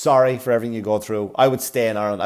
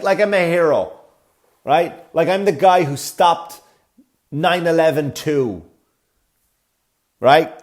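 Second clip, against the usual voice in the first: higher and louder, slow and admiring; mock reverent praise for a hero; hero worship tone; 6 semitones higher, 6 dB louder, slower than usual. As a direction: speak to him as if he saved the day. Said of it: "that's how she spoke to me".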